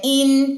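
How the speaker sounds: इन with lips drawn back, N held; sustained इन, clean closed ending; spread-lip demo. Shown as a demonstration. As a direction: pull the lips back for इन and hum the N. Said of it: "होंठ पीछे की तरफ लेके जाए".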